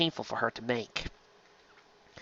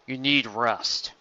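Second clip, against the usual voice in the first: stern commanding; much slower than usual. Acted. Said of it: "said a stern, commanding voice".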